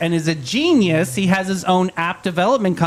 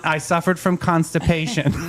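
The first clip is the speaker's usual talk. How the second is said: shouted reread. Acted. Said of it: "rereads the line".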